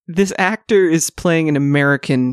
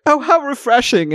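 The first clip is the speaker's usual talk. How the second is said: mock sarcastic; 9 semitones higher than usual. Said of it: "everyone's like".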